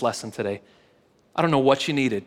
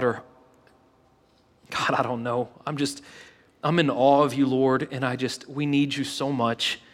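closing prayer. Real, not acted. Pastor praying over congregation before communion, earnest. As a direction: pray it humbly for the room.

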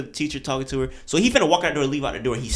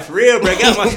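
tough hot voice; 6 semitones higher, 7 dB louder than usual. Retold or imitated. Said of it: "So I put on my hot nigga voice".

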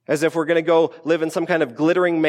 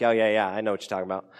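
quick, softer mock "yeah, I know"; fake agreement; 6 semitones lower, 4 dB quieter, much faster than usual. Pretending to follow a conversation, quick and softer. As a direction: brush it off as if you understand. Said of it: "kinda act like".

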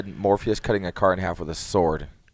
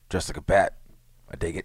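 laid-back lightly voiced Momoa; Jason Momoa voice; 3 semitones lower, 4 dB quieter than usual. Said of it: "picture a Jason Momoa voice".

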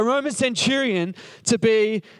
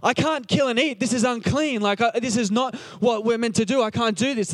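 lightly acted panic, pleading upward; mildly freaking out; 2 semitones higher than usual. Peter protests to God about eating unclean food, mildly freaking out. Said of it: "like, freaking out".

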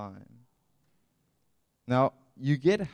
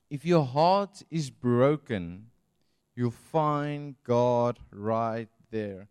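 reading scripture; 5 dB louder, much slower than usual. Acted. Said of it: "the psalmist says it's so beautiful".

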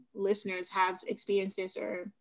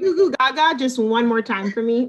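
pleading parent; 4 semitones higher, 10 dB louder than usual. Retold or imitated. Begging baby talk back.

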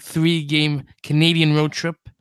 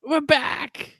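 showman's announcement; 9 semitones higher than usual. Pretend. Podcast host's big show opening.

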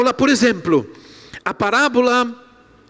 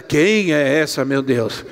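put-on girls puzzled, laughing; 6 semitones lower, slower than usual.

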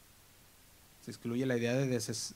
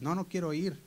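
put-on reluctant teen; 5 semitones higher, 3 dB louder than usual. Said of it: "hay tiempo en que tú dices".

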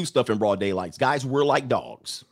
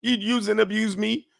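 higher-pitched, slow, drawn-out woman's gripe; mock female lament; whiny woman complaining; 6 semitones higher than usual. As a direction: put on a woman bemoaning a man, pitched up. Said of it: "And then she's like".

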